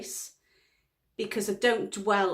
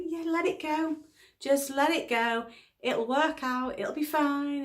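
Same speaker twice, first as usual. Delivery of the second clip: higher-pitched, easy reassurance; reassuring; 6 semitones higher than usual. Retold or imitated. Wife retelling how she told husband to let it go, reassuring. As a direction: brush the worry away.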